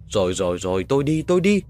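panicked giving in. Acted. Man agreeing to leave for the ghost, panicked and rising. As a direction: give in, rattled.

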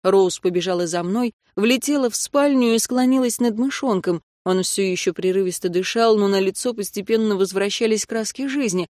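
ordinary delivery, nothing marked

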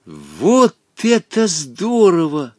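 slow, gleeful cry of joy; delighted. A narrator's reading. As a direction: cheer the clever trick. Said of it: "обрадовался Волька". (радостно)

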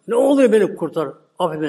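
a high plea fading to plain; desperate pleading. Acted. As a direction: beg Musa to save him. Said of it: "Durmadan yalvarıyor".

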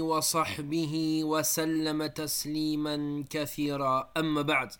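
even, monotone Arabic recitation; formal opening invocation. Acted. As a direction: intone the opening praise on one steady note.

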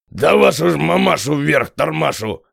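a lively voiced angry Kostoprav exclaiming; outburst. A narrator's reading. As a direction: Kostoprav bursts out, mildly growling. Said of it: "всё-таки не выдержал Костоправ". (сорвался, в сердцах)

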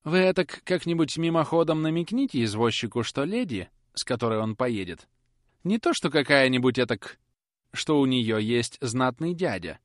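a hint of a nervous lady giving orders; not quite decisive. A narrator's reading. Miss Tox instructing the footman, half-confident. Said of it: "не совсем решительным тоном".

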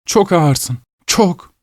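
high, teasing taunt; mocking wife. Sleepwalking wife taunting her husband, high. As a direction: jeer at his slowness. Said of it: "diye kadın cevap verdi".

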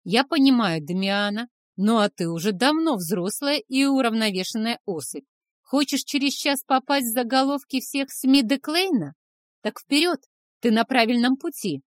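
mock the brother sharply; sarcastic scolding. A narrator's reading. Uncle scolds younger brother.

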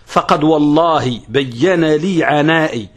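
slow measured poetry recitation; recited verse line. Shown as a demonstration. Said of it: "مثل له بعض العلماء".

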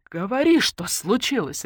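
loud, high demand at the start; sharp command; barking. A narrator's reading. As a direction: order it out impatiently. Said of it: "рявкнула Наташка".

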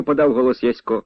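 plain reading voice

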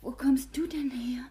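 whispered, startled questions in the dark; anxious whisper at night; hushed whisper. Acted. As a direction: keep it to a breath so no one hears. Secret night meeting, hushed surprise.

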